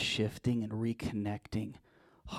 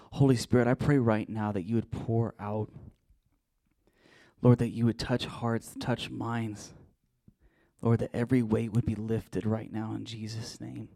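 fervent prayer; 5 dB louder than usual. Real, not acted. Leads a prayer.

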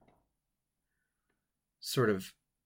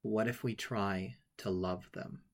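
put-on innocent child's question; slower than usual. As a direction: ask it gently, like an innocent little boy. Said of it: "says with all the innocence of a child".

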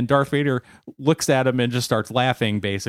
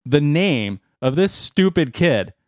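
gleeful buildup; 5 semitones higher than usual. Acted. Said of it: "He says".

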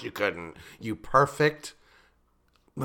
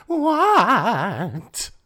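shocked; 9 semitones higher, 5 dB louder than usual. Real, not acted. Shocked reaction to plot twist.

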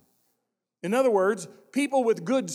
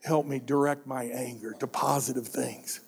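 quiet prayer; 7 semitones lower than usual. Acted. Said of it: "We should all be praying".

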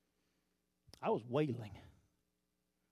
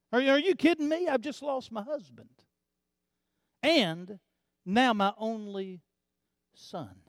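widow's protest. Acted.

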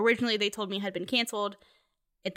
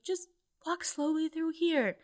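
soothing; 8 semitones higher than usual. Retold or imitated. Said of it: "talked to me like I was on a ledge".

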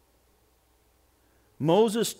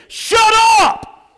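very high, loud comic yell; mock theological shout; 11 dB louder than usual. Preacher translating Moses for the congregation, hammed-up shout. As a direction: blast it out as an exasperated outburst. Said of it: "in a theological voice".

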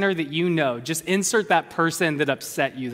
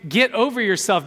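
preacher's raised, higher rebuke; firm rebuke; 4 semitones higher than usual. Real, not acted. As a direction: tell them bluntly to get over themselves.

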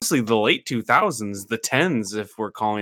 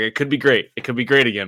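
sugary, pointed passive aggression; sweetly passive aggressive. Retold or imitated. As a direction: say it sweetly but with a jab. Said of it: "the most passive-aggressive Donald Trump supporter".

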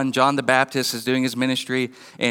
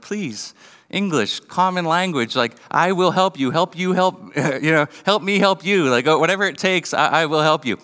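pleading parent; 2 semitones higher than usual. Retold or imitated. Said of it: "you're like".

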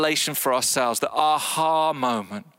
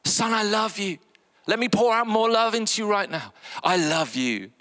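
loving father; 5 semitones higher than usual. Acted. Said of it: "He's full of my love".

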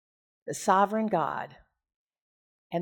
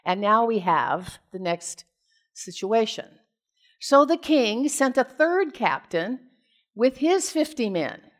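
measured, formal Bible reading voice; steady lector delivery; scripture reading. Acted. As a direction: read it out to the congregation. Reads scripture aloud.

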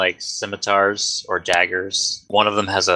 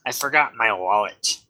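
pirate voice; 4 semitones higher than usual. Acted.

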